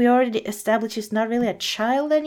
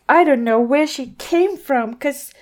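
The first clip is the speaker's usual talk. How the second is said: Cinderella voice; 7 semitones higher, 4 dB louder than usual. Acted. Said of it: "Cinderella was like".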